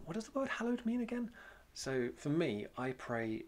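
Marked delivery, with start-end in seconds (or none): 0.0-1.3 asking a question. Retold or imitated. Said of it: "ask someone".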